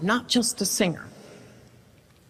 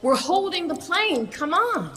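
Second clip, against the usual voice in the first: mock yell; 7 semitones higher than usual. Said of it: "And she yells".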